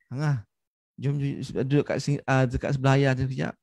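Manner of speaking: softened, coaxing fatherly invitation; changed, kindly intonation. Retold or imitated. Father asking his child to sit beside him, gentle. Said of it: "Dia punya intonasi berubah".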